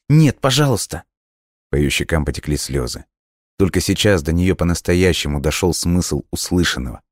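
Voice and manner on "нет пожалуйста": high, louder desperate cry; desperate plea. A narrator's reading. Girl begs dying friend not to go, desperate high cry. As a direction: beg him in despair. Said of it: "Вика в отчаянии".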